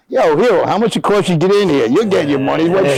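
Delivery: high-pitched call to the stands; heckling back. Retold or imitated. Player answers screaming fan in the stands, mocking shout-back. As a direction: act out taunting a heckler.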